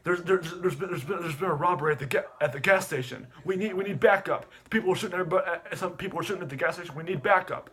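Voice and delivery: high, hurried mock emergency report; urgent radio call. Caller reporting a gas station robbery, high and urgent. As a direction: imitate an officer pleading for help.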